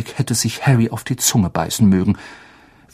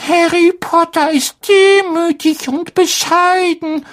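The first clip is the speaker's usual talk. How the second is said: reverent; 4 dB louder than usual. Acted. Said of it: "sagte Dobby ehrfürchtig".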